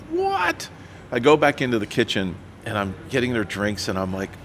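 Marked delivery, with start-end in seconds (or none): 0.1-0.7 high-pitched, incredulous yelp; stunned disbelief. Retold or imitated. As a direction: react as if you can't believe it, voice shooting up. Retold stunned reaction to news about a band.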